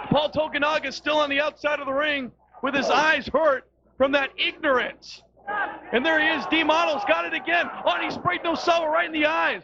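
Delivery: wrestling commentator hyped on the action; excited play-by-play. Acted. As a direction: call the spray like a live finish.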